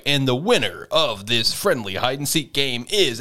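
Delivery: swooping announcer-style build-up; mock announcer. Announcing the winner of a hide and seek game, mock announcer. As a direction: tease out the winner with bouncy emphasis.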